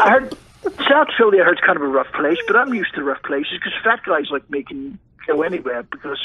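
half-held mock English accent. Guest describes South Philly to Chris, mock English accent. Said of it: "do your English accent".

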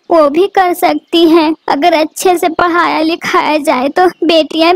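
worried mother crying out her prayer; anxious prayer. Acted. Worried bird prays to God.

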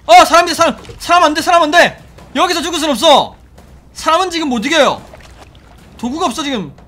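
loud, high panicked pleading; panic, begging not to die; scared horror game streamer. Real, not acted. Attacked by enemy, panicking.

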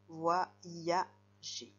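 "Voyager" split into three separate syllables. Shown as a demonstration. Teacher recapping the breakdown for pupils, "Voyager" syllable by syllable. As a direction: pause after each syllable of "Voyager". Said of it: "Dans la deuxième syllabe".

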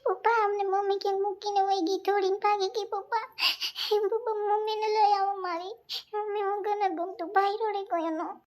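put-on crying child. Child begging papa to bring mummy back, whiny. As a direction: plead like a small child left behind.

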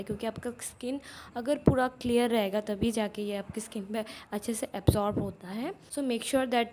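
speaking through fingers at mouth; fingers pressing on lips. Real, not acted. Seen 0: Fingers press around lips, smoothing sheet mask, while speaking.

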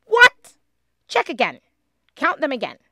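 very high, loud panicked shriek; high, loud, frantic. Acted. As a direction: shriek it in alarm. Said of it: "shrieked Lindy".

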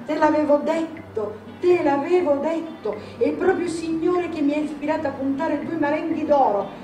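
high-pitched, beaming satisfaction; triumphant. A narrator's reading. Grandmother gloating over her winning bet, radiant and satisfied. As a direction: crow over being proved right. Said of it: "tutta raggiante e soddisfatta".

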